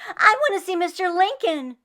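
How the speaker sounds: high, loud, stressing want; excited girl pleading to see Lincoln; eager insisting. Acted. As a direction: plead with all your heart.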